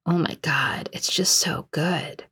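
slow, breathless whisper, caught up in the show; awed whisper. Retold or imitated. Coworker gushing over Buffy, an awed whisper. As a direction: whisper it as if the show is too good. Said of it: "she's just like".

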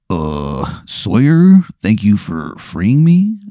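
a lightly voiced gravelly gargoyle, slow; hint of a rough stone creature. Freed gargoyle thanking Sawyer, lightly gravelly. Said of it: "kinda gravelly voice".

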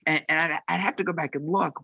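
normal talking voice

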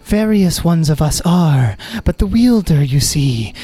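lightly voiced woman speaking from the sword; a hint of a woman's voice. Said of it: "a woman's voice".

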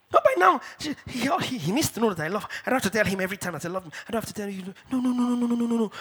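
high start, then a quick dismissive run; mock indignant refusal. Preacher imitating wives who won't say they love their husbands, mock indignant. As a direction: act out a stubborn spouse brushing it off.

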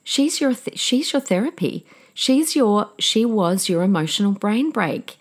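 a hint of a counselor friend reassuring her; friend's caring voice. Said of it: "She goes".

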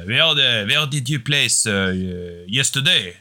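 put-on high French-accented voice. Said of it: "You've got a good French accent".

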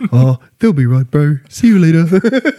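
lightly voiced easy-going big bloke; breezy, friendly send-off; cheerful islander. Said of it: "they'll be like".

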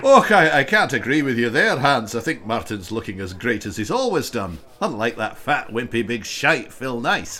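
mock Scottish accent; bad Scottish accent. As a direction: do a hammy Scotsman. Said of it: "that bad Scottish accent".

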